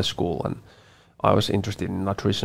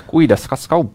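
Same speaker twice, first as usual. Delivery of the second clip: laughing mock Estonian; 7 semitones higher, 5 dB louder than usual. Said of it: "imitation of Estonian language".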